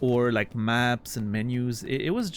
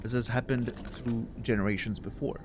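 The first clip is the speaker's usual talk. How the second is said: higher, theatrical flea showman; grandiose flea circus showman; 4 semitones higher than usual. Acted. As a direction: plead like a grand ringmaster. Voices flea master dialogue.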